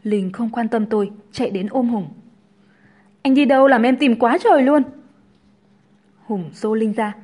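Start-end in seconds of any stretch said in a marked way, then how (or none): 3.2-4.8 lightly acted clingy complaint, higher and louder; clingy girlfriend. A narrator's reading. Linh runs to hug Hùng, mildly whining complaint. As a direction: fuss at a man you've been searching for.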